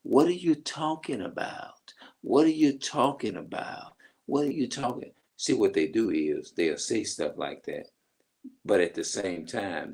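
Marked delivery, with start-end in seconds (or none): 0.0-5.1 mock defensive denial. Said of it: "this is how they would flip what you say".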